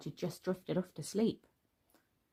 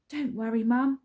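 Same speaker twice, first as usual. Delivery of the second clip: called out; 5 semitones higher, 6 dB louder than usual. A narrator's reading. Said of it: "she called".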